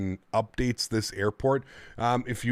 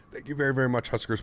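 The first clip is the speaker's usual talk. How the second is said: words catching as the voice gives; voice cracking; 3 semitones higher, faster than usual. Real, not acted. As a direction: voice slipping mid-thanks. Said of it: "almost lost my voice there".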